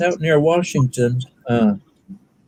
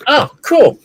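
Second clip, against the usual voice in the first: mock cool; 12 semitones higher, 3 dB louder than usual. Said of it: "I went".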